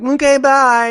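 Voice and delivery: breezy brush-off. Retold or imitated. Girl breezily dismisses the grateful man. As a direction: toss it off and leave.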